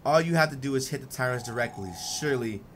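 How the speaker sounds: a hint of measured, cold characters; lightly voiced calm characters. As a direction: read the guild pair evenly and coolly. Voicing Emily and Vados dialogue.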